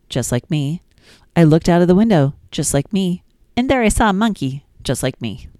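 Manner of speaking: sing-song, lilting nursery rhyme reading; gentle storytime reading; reading rhymes to children. Acted. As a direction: read it like bedtime rhymes for a toddler.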